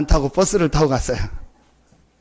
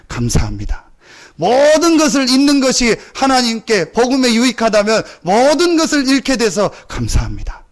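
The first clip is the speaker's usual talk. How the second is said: louder, higher building prayer; fervent preaching; 5 semitones higher, 4 dB louder than usual. Acted. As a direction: pour it out as thanksgiving. Preaching rises in force. (점점 고조되는 설교)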